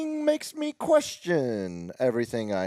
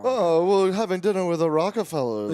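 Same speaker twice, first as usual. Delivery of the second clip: mock upper-class accent. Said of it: "Upper class".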